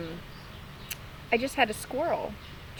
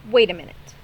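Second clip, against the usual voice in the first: louder call from above; 3 semitones lower, 7 dB louder than usual. Acted. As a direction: call out suddenly suspicious. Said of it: "called the voice".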